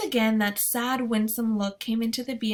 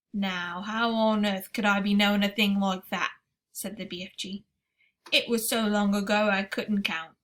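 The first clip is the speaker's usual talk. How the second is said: giant BFG voice; 3 dB louder than usual. Acted. BFG speaks in story.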